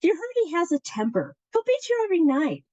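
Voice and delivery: matchmaker's warning. Acted. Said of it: "the matchmaker has said to".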